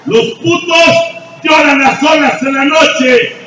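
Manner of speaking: very loud and high, slow hammering words; preaching shout. Real, not acted. Sponsor at the AA podium shouting down the crybabies, full-force roar. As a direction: roar it down at the room like a furious sponsor. AA speaker confronts the crowd.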